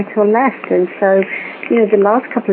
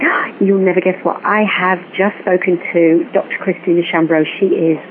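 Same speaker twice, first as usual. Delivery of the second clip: imitating excited friend. Vicky phoning with news, imitated as gushing excitement. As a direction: gush like a thrilled friend with big news. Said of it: "really, really excited".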